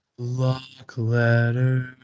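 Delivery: satin-smooth full announcer voice, "Lock" stretched out. Asked to repeat the phrase in the NPR voice: NPR voice. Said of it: "can you do that in the N P R voice?".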